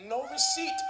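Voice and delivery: squeaky high refusal from the clerk. Retold or imitated. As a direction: snap it back way up high.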